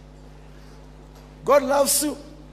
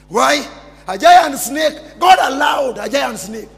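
dramatic reveal; 8 dB louder than usual. Acted. Dramatic reveal in preached story.

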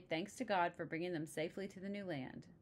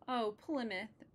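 happy; 5 semitones higher, slower than usual. Acted. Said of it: "very happy".

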